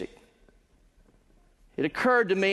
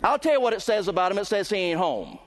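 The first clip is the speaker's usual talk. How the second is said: raised, ringing pulpit voice building in intensity; preaching at full force; 2 semitones higher, faster than usual. Acted. Preacher to his congregation, full-force preaching. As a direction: drive the point home to the congregation.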